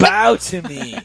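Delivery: high, loud, drawn-out mock decree; mock command. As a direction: demand worship as a joke, stretching it out. Mock demand for worship from host.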